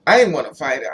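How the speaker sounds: loud, punching "didn't"; emphatic denial. Real, not acted. Telling the interviewer about the girl, loud emphatic denial. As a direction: hit "didn't" hard to insist. Insisting she didn't want fighting.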